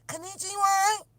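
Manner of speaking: high mock voice of the headphone lady. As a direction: chirp it like a device announcer. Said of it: "this woman will come on".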